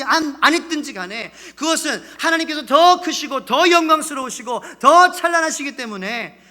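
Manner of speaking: loud, high, emphatic sermon delivery; full-force preaching. Acted. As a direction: proclaim it forcefully to the congregation.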